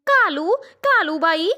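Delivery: calling out. Acted. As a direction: hail the crow from across the wires. Sparrow calls to crow.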